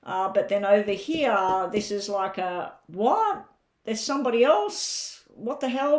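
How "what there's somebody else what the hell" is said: high, disbelieving What, rising; mock shock. Reader voicing the querent discovering a rival, in shock. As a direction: play the jilted one, caught off guard. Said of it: "this is where you're shocked".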